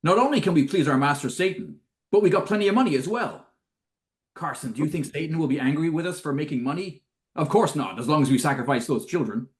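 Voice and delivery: mock villainous exchange, lightly voiced; lightly acted villains. Host re-enacting the Satan exchange for co-hosts, lightly acted. Acting out film dialogue exchange.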